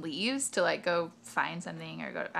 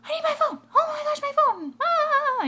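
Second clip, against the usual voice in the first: much higher, louder frantic plea; imitating tweaker lady; 9 dB louder than usual. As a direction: whine for the phone like a desperate addict. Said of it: "you can hear her way down the road".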